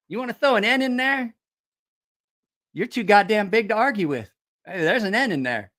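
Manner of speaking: high-pitched incredulous arguing; mock exasperation. Shipmate arguing with Paulo over the missing N, mock exasperation. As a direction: protest as if baffled by his logic.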